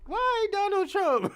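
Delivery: high whiny wail; mock sob of a betrayed voter; mock crying voter. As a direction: imitate her tearful pleading. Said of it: "That's all you hear".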